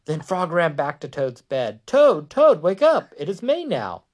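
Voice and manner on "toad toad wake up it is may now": high, loud wake-up call; storybook holler, high and urgent. A narrator's reading. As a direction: call high to rouse a sleeper. Frog wakes Toad, read aloud.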